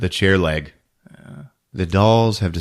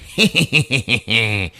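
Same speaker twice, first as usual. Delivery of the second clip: tag; 3 semitones higher than usual. Retold or imitated. Imitates Mister Punch laughing.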